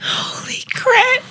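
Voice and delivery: whispered high wheeze; laughing too hard to voice it; breathless laugh. Real, not acted. Stunned by the cancer answer.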